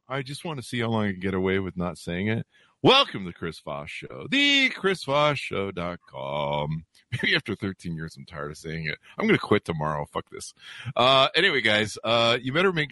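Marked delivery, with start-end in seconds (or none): 2.8-6.9 announcer. Acted. Drawn-out show intro.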